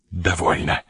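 ordinary delivery

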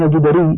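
الجدري with u after ج, a after د; damma, then fatha. Shown as a demonstration. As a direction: say الجدري as al-judari. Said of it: "بضم الجيم وفتح الدال".

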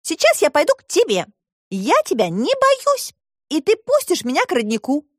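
put-on high girl's voice, reasoning; Alisa arguing. A narrator's reading. (высокий девичий голос, спорит)

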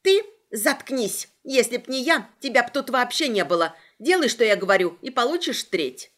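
angry shriek at the reporter. Acted. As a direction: shriek it, furious and bossy. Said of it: "Взвизгнула Агата".

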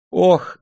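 gasping oh through laughter; breathless laughing gasp. Acted. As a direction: wheeze out of laughing. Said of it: "задыхаясь от смеха, прошептал актёр". (задыхаясь от смеха)

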